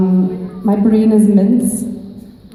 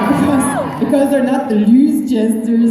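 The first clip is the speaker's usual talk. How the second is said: mock dramatic; 2 semitones higher than usual. Mock dramatic Winchesters pun.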